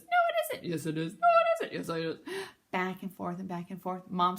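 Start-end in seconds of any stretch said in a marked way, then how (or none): 0.0-0.7 very high squeaky bird voice. Acted. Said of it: "I like your bird voice". 0.7-1.1 grandpa voice. Acted. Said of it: "your grandpa voice". 1.1-1.7 very high squeaky bird voice. Acted. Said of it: "I like your bird voice". 1.7-2.5 grandpa voice. Acted. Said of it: "your grandpa voice".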